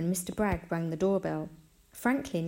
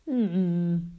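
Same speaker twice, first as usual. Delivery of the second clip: closed-mouth "mm-mm" grunt, louder; disapproving snort; 5 dB louder than usual. A narrator's reading. Mister Bragg responding to the damp, snorting. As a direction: grunt it through closed lips. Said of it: "Mister Bragg snorted".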